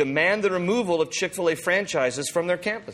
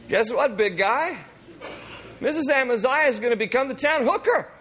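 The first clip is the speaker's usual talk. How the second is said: laughing; 10 semitones higher than usual. Real, not acted. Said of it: "laughing at the thought".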